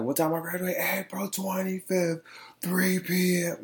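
high sing-song teasing, slowed on the date; playful call-and-answer with the viewers; teasing quiz voice. Pretend. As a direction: quiz the audience like a teacher. Mock Q&A quizzing viewers on graduation.

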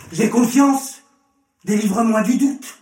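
high, urgent exclamation; crying out. A narrator's reading. Father crying out to Jesus for help, urgently. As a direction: call it out as a fervent plea. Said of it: "Le père de l'enfant s'écria".

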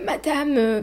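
desperate. Retold or imitated. Laboring mother begs the midwife for help, desperate. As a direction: beg for help, on the edge of tears. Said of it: "vraiment, mais désespérée".

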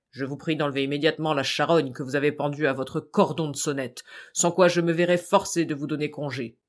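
lightly voiced impertinent landlord; a hint of a rude, curt landlord. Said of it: "personnage grossier et fort impertinent".

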